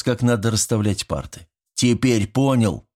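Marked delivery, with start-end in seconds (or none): 1.7-2.9 stern. Acted. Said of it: "тут же сурово уточнил отец".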